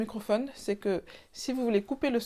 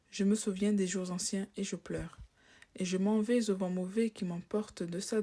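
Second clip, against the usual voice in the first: poem recitation. Shown as a demonstration. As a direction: read the verses like a recital.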